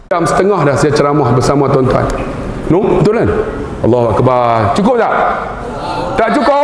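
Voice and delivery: loud, teasing call to the audience; loud rally. Real, not acted. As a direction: rouse the congregation. Preacher rousing tired crowd.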